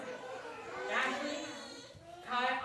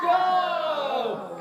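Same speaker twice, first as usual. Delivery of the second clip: shouted Go; 4 semitones higher, 7 dB louder than usual. Acted. Pharaoh relenting with a shout.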